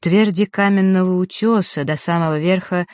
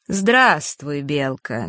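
mocking; much slower than usual. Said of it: "насмешливо молвила".

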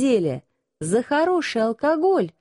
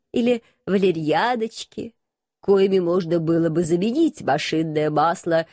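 restrained; 4 semitones lower than usual. Acted. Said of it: "и сдержанно заметил".

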